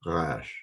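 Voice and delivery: Resh with the R made in the back of the throat. Shown as a demonstration. Hebrew teacher showing learners the letter, throaty R in Resh. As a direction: say Resh, tongue pulled back to make a throaty R. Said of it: "Move your tongue back a little bit".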